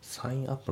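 "サインアップ" joined as sai-nap; linked words. Shown as a demonstration. Teacher showing learners linking in sign up, joined. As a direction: run the N of "サインアップ" into the next vowel. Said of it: "リンキングでサインアップ".

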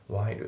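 "while" with every sound, l included; fully pronounced. Shown as a demonstration. Teacher showing the rarely heard form, full "while". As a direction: give "while" its full final l. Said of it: "しっかり発音される".

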